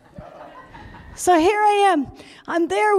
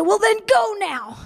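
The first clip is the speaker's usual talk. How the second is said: tag; 7 semitones higher than usual. Retold or imitated. Acting out police ordering her out.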